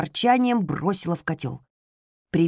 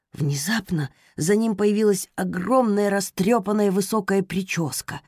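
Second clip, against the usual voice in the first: plain reading voice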